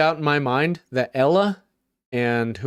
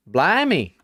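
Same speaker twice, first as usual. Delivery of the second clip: Southern accent on the British word blimey; 2 semitones higher than usual. Shown as a demonstration. Streamer tries blimey in a Southern accent. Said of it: "Say blimey in the Southern accent".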